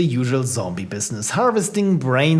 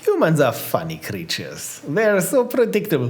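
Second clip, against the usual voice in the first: put-on Baltic accent. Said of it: "Why am I doing a Baltic accent?".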